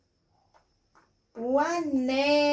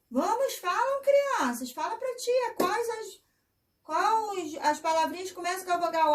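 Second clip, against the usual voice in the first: high, soft coaxing teacher voice; sweet encouraging preschool teacher; 5 semitones higher, 3 dB quieter, faster than usual. Real, not acted. Teacher coaxing the children to answer.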